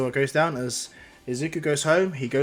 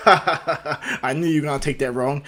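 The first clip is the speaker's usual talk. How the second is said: laughing; 4 dB louder, slower than usual. Acted. All Might laughs off the misunderstanding.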